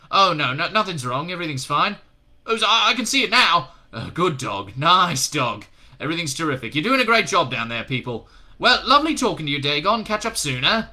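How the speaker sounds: loud, high, overly cheerful; nervous bluffing. A narrator's reading. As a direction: gush to cover the lie. Crowley bluffing on radio.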